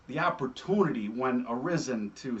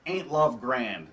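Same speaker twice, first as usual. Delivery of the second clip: sarcastic; 3 semitones lower, slower than usual. Retold or imitated. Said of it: "more sarcastic".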